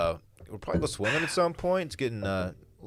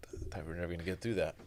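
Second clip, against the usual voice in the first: low, whispery and much softer; hushed aside; 8 semitones lower, 10 dB quieter than usual. Pretend. Co-host after the long ad read, hushed aside. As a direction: drop to a near whisper.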